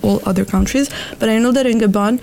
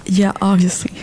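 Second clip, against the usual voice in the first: whispering. Real, not acted. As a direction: breathe it as a whisper. Whispered joke agreement.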